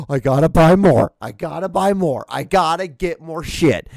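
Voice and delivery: loud, mock-crazed urgency; frantic shoppers. Comedian imitating shoppers losing their minds, frantic. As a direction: repeat it like a compulsive buyer. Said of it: "they just lose their goddamn mind".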